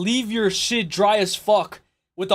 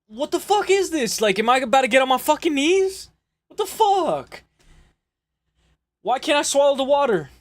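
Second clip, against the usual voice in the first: high, incredulous what the fuck; baffled disbelief; 5 semitones higher than usual. Real, not acted. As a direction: react like the instruction makes no sense. Reacting to gargling instructions.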